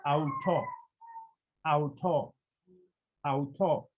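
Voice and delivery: "auto" said ow-TOH, no final s; careful Greek pronunciation. Shown as a demonstration. Teacher modelling neuter form for learners, "auto" carefully as ow-TOH. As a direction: repeat "auto" clearly, ending on an open o. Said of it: "we pronounce it".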